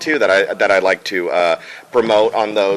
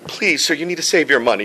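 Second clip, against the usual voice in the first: demon general; 6 semitones higher, faster than usual. Acted. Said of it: "demon general is like".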